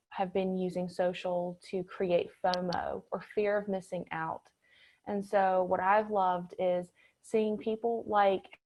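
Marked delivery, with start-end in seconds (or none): 5.1-8.6 audio cutting in and out; choppy connection, volume dropping; uneven volume. Real, not acted. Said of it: "Your audio is cutting in and out occasionally".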